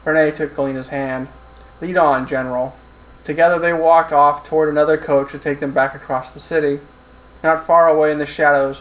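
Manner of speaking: measured audiobook narrator; steady third-person storytelling; story narration. A narrator's reading. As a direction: read the action scene evenly, like an audiobook.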